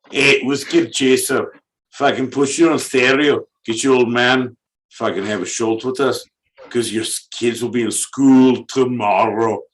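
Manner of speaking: rambling put-on Scottish accent. Host addressing Whiskey Chaser, mock Scottish accent. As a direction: ramble on like a comic Scot. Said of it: "I wanna do Scottish".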